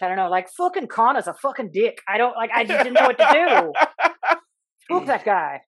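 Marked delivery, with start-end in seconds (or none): 0.6-2.0 quick mock Irish accent; pitched-up fake Irish. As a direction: switch into a put-on Irish accent. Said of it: "then changed to be Irish".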